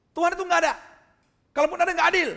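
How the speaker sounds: high, loud accusation; acted-out furious outburst; angry shouting. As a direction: yell it down from the staircase. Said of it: "teriak-teriak di tangga".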